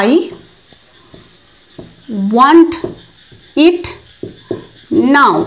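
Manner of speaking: each word set apart by long pauses; teacher spacing out words; slow word-by-word demo. Shown as a demonstration. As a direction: dictate it slowly to the class. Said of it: "তো এটার জন্য বলবো".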